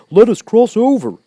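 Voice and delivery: high, loud sudden call; urgent cry. A narrator's reading. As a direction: shout to hurry them. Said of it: "cried the Scarecrow".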